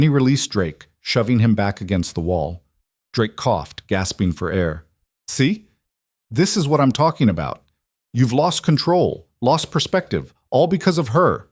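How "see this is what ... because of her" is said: taunting prisoner. A narrator's reading. Captive taunting the king.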